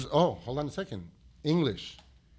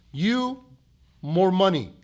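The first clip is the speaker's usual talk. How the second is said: higher mock boss voice, clipped words; boss's broken English; 5 semitones higher, slower than usual. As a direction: mimic the boss offering a raise in broken English. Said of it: "He says".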